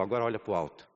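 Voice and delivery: low, soft guiding voice; gentle, wise voice. Retold or imitated. God redirects a helpless son toward heaven, gently. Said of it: "com a sua voz mansa e sábia".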